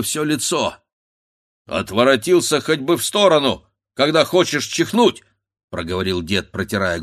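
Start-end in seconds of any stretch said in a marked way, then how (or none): 1.7-5.2 grumbling scold. A narrator's reading. Grandfather scolds unseen sneezer.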